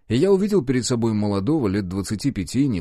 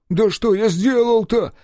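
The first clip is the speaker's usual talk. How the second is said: much higher, louder whining bleat; plaintive bleat; 12 semitones higher, 6 dB louder, slower than usual. A narrator's reading. Frightened chief pleading with the detective, plaintive bleating. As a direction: whimper it like a scared sheep. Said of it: "жалобно проблеял Кишкин".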